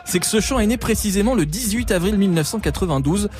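normal talking voice

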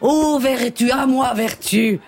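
lofty tragic princess plea; calling on virtue, grandly; haughty aristocratic french. Acted. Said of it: "je joue la princesse de Clèves". (princesse hautaine et tragique)

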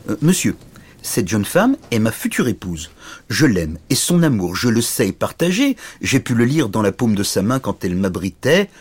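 lightly voiced earnest little knight; an understated proud, tiny suitor; dignified little knight. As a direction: plead your case with mild dignity. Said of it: "aussi dignement que possible".

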